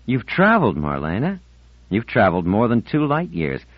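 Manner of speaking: lightly voiced boy, grandly lecturing; a hint of mock ceremony as he teases; teasing Ornell. Boy teases Marlena about her travels, mildly pompous.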